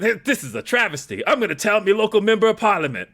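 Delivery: put-on broad, high Australian accent, ramping up to a call; hammed-up outraged Aussie from The Simpsons; Australian parody accent. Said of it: "an entire parody of Australia".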